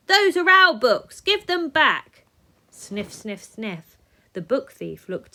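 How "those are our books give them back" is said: high, loud indignant yell. Acted. Children yelling at the book thief to return the books. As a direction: demand it back, furious. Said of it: "the children yelled".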